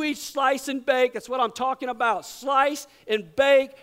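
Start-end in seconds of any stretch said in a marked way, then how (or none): 2.3-3.7 loud, slow hammed-up reverence for cookie dough; mock reverent. Preacher hails slice and bake as heavenly, hammed up. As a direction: savour each word like holy relic.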